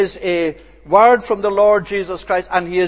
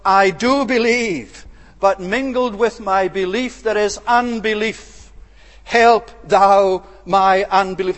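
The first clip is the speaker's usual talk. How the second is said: a father's understated cry for help; anguished plea. Acted. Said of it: "crying out in anguish and in sorrow".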